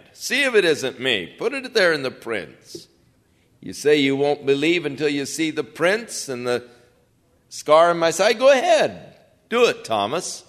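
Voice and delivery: urgent dare to Thomas; urging challenge. Retold or imitated. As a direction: goad him to try it. Jesus challenges Thomas, voiced.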